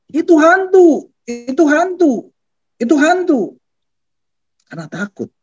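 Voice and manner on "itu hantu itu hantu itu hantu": repeated high cries, each falling away; acted panicked calls, pitched high without real volume; mock yelling. Disciples shout to each other about a ghost, mock yelling. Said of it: "Mereka berteriak-teriak".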